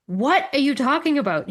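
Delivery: mildly exasperated retold question; incredulous. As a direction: lean hard on WHAT, as if baffled. Woman in reel, more baffled reply.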